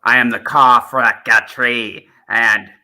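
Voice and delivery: lightly voiced McCoy Doctor; Seventh Doctor impression. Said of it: "So that's my McCoy one".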